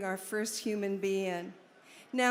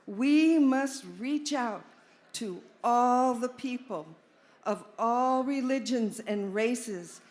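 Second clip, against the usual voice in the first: formal speech reading. Acted. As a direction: read it out like a manifesto. Reads Alan's Be-In statement aloud.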